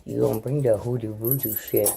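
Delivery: ordinary talk, nothing marked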